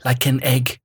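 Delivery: lightly done German-tinged Herzog reading, grave and deliberate; Werner Herzog voice. Acted. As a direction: read the column like a brooding German documentary narrator. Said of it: "because Werner Herzog's saying them".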